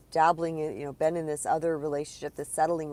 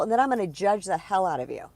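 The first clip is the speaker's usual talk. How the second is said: mock judgmental God; 2 semitones higher, 6 dB louder than usual. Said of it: "God ... says".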